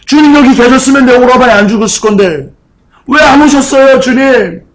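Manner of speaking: high, aggrieved acted plea; pouring out hurt. Martha reproaching the Lord over her dead brother, hurt and pleading. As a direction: protest to the Lord, pitch climbing on each complaint. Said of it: "서운함을 토해내는 겁니다".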